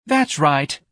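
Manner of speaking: high, mildly moaned reproach; moaning. A narrator's reading. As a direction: moan it bitterly. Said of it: "Missus Levy moaned".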